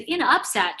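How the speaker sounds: mock-baffled client's query; incredulous echo. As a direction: throw it back as a disbelieving question. Client challenges the odd phrase.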